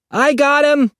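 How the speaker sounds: calling out. A narrator's reading. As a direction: call to someone outside. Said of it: "he called".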